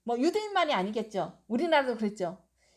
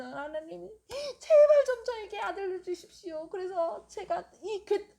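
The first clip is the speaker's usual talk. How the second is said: pleading prayer; 5 semitones higher than usual. Retold or imitated. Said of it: "입만 쫑글쫑글쫑글 하면서".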